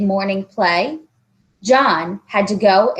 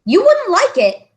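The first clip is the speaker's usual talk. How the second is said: high, rushed protest; protesting boy; 12 semitones higher, 5 dB louder than usual. Acted. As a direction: protest fast to explain himself. John sulking.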